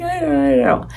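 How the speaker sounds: high whiny imitation of giving in; mock whiny concession. Daughter answering her mom's advice, mock whine. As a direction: whine it lightly, like a chided kid. Retold reply to cautious mom.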